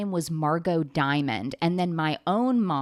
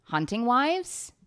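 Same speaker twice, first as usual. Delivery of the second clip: pleading; 3 semitones higher, much slower than usual. Retold or imitated. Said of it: "I was like".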